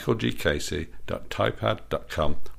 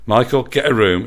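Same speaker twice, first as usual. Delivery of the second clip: booming order; 5 semitones higher, 8 dB louder than usual. Acted. Boss bellows at couple.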